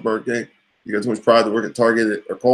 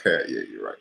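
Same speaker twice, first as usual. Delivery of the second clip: grumpy coworker; 14 semitones lower, 7 dB quieter, faster than usual. Retold or imitated. Coworker voiced in retold chat.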